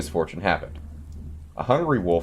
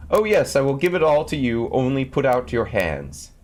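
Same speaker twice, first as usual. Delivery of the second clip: put-on high, louder boy's call, slowing at the end; 6 semitones higher, 3 dB louder than usual. A narrator's reading. Tom Thumb calling to the thieves, loud and high. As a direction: shout it up so the house wakes. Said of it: "called out once more as loud as he could".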